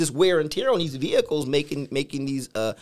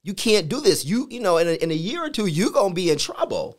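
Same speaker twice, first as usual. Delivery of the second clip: body's warning; 4 semitones higher, 4 dB louder than usual. Retold or imitated. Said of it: "my body began to tell me".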